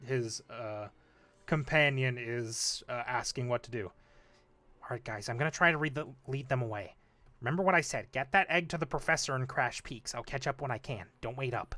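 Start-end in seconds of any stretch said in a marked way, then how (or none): 4.8-11.7 half-whispered, hushed voice. A character half-whispers to the three of you while the constable monologues, half-whispering. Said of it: "He whispers to the three of you".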